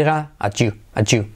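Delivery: "at you" run together as "achu"; T+Y merged. Shown as a demonstration. Teacher demonstrating the link, "at you" as "achu". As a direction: blend T and Y in "at you" into a "ch" sound. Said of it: "como si fuera una G J".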